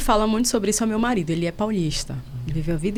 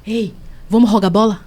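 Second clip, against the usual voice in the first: put-on rushed teen; 7 dB louder than usual. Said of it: "chegou perto dele e falou assim".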